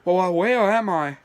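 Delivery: slow, lightly put-on lost creature; lightly voiced lost character, drawn out; trying a character voice. Shown as a demonstration. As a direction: try out a slow, wondering figure. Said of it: "gonna do something like this".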